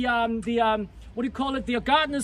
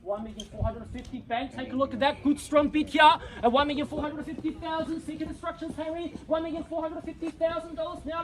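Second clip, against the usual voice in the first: brisk auction call, rising at each bid; auctioneer calling bids. Real, not acted.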